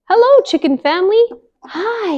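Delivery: a friendly miller calling hello; lightly voiced miller. Miller greets.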